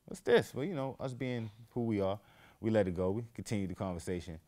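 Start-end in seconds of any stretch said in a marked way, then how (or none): 0.0-0.5 high, startled question; mock startled reaction; surprised whoa. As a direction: act out the surprise. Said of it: "I'm like".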